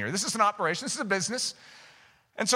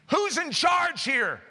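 raised, drawn-out demand; God calling someone to account; God demanding answers; 5 semitones higher, slower than usual. Acted. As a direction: call out slowly as the one in authority. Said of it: "God says".

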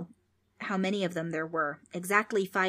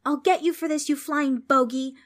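put-on loud, high-pitched girlish threat; angry shout; 7 semitones higher, 6 dB louder than usual. A narrator's reading. Trix threatens the ghost, shouting angrily. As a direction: shout a threat, drawing out the insult. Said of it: "Trix shouted".

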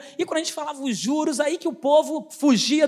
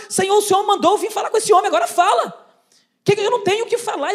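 fast, higher-pitched protest to God; retold desperate pleading; 4 semitones higher, 4 dB louder, faster than usual. Arguing inwardly with the Holy Spirit, frantic. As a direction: plead urgently, words tumbling out. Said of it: "por dentro, eu falando com o Espírito Santo".

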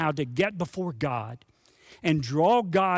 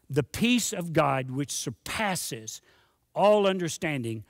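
slow, savored reading. Acted. Savoring key scripture phrase.

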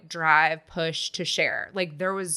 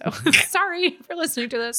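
laughing apology; 10 semitones higher than usual. Real, not acted.

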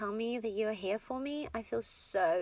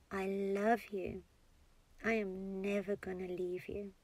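out loud. Shown as a demonstration. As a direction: say it aloud gently, taking your time. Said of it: "saying it out loud now".

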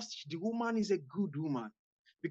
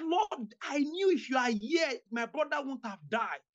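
1 pleading lament; 6 semitones higher than usual. Acted. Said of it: "They said".

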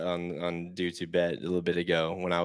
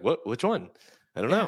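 imitating a co-host's panicked questions; mock panic; 2 semitones higher than usual. Podcaster teasing his co-host about sounding worried, mock panicked. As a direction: put on a light, flustered panic. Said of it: "the panic in your voice".

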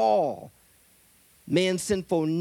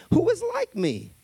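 cocky divine challenge, pitched up high; booming challenge; 13 semitones higher than usual. Acted. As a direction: throw the question out like a dare. God's boast acted loudly.

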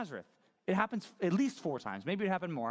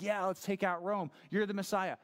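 excited; 4 semitones higher than usual. Retold or imitated. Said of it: "They're gonna get so excited".

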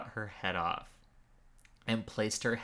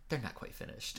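Floop impression; 7 dB quieter than usual. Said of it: "Floop is like".

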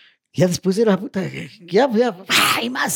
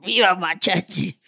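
put-on drunk cheer; slower than usual. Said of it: "Y dice".

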